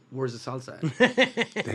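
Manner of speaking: slow, drawn-out demand with a laugh; demanding wife. Retold or imitated. Pregnant wife opening the bags, demanding her salsa slowly. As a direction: stretch it out like an annoyed wife.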